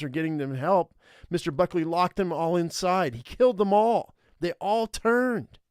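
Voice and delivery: put-on urgent, distressed teenage boy account; building from tense recounting to high outrage; agitated young survivor. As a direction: tell it with mounting horror, pitch climbing. Voices Brody telling what happened.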